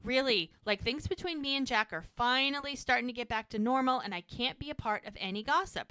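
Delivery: mock panicked refusal; freaking out. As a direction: push back hard, acting out alarm. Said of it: "Hope freaks out at her".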